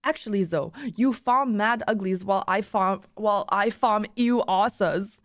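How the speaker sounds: put-on deliberate retort in a rough German accent; badly faked German accent; attempted German accent. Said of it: "I can't do a German accent".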